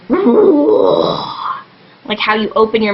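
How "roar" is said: slow, loud, high roar. Shown as a demonstration. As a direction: let out a drawn-out demo scream. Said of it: "make it really shut, like a whisper".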